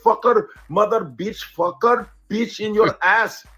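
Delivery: high-pitched, sing-song mock Indian accent; hammed-up Indian-accented swearing; clumsy Indian-accented cursing. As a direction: pile up curses in a comic Indian accent. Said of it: "don't even feel cursed out when they curse".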